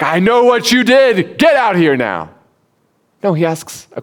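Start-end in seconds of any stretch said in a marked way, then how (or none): 0.0-2.3 imagined God scolding the hiding couple; mock scolding. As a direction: scold like a parent catching them out. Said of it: "does God scold them and be like".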